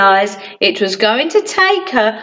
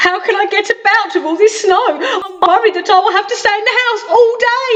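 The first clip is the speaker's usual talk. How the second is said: fast, higher fretting; worried gabble; 8 semitones higher, much faster than usual. Acted. Mister Worry fretting to Sunshine about the snow, fast and anxious. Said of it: "I'm very worried".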